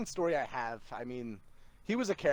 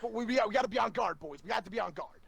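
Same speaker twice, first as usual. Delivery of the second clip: mock paranoid boss; 5 semitones higher than usual. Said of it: "He's like".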